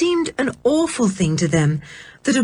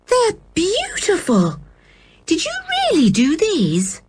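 awed admiration; 11 semitones higher than usual. A narrator's reading. Girl admiring hidden paintings, high and wondering. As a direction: marvel at each word.

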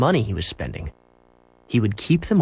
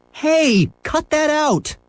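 yelling at dog; much slower than usual. A narrator's reading. Boy yelling at his dog tearing the meat. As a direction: shout at the dog to stop. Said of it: "yelled Henry".

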